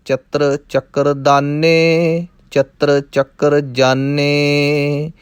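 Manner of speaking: measured, chanting recitation of verse; rhythmic Gurbani recitation; scripture recitation. Acted. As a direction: recite the verses steadily like a path. Recites Jaap Sahib verses.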